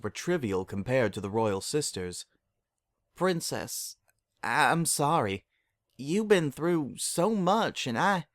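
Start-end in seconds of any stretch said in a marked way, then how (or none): 3.1-8.3 tearful apology. Acted.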